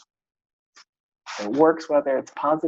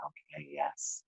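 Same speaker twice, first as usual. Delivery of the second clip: quiet assent; 2 semitones lower, 18 dB quieter, slower than usual. Retold or imitated. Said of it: "And I'm going".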